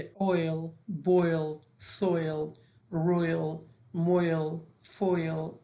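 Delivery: "oil، boil، soil، royal، moil، foil" each with an oy glide; OI as اوی. Shown as a demonstration. Teacher drilling OI examples, each said as اوی. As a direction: model each word separately with اوی.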